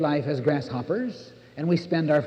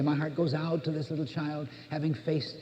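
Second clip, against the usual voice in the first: pitying parent; 4 dB quieter than usual. Retold or imitated. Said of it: "as we say".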